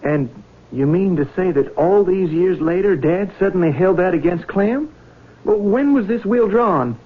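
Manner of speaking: upset disbelief. Acted. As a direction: pitch climbing high in disbelief. Son protests the will.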